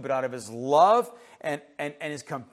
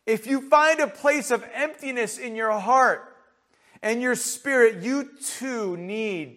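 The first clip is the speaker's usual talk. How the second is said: raised-pitch pulpit appeal; earnest preaching; 8 semitones higher, 6 dB louder than usual. Real, not acted. Preacher appeals to anyone hungering and thirsting spiritually, earnest preaching. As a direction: press the truth home to the listeners.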